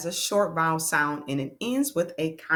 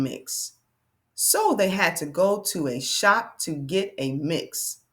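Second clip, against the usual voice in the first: slow, deliberate read-aloud; word-by-word reading for learners to follow; reading to children; slower than usual. Acted. Teacher reading a decodable for friends to repeat, slow read-aloud.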